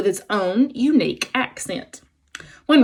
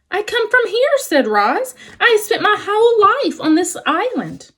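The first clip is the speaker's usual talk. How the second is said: robot voice; 12 semitones higher than usual. Acted. Robot answers animals.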